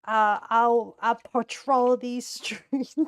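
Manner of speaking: slow, loud hero vow; vigilante voice. Pretend. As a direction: declare it like a caped crusader. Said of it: "That's my best vigilante voice".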